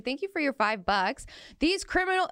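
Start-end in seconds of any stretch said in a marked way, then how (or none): 1.6-2.3 shouting capitalized words. Shown as a demonstration. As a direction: yell "criminal" like all caps. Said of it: "I'm gonna yell it because it's in caps".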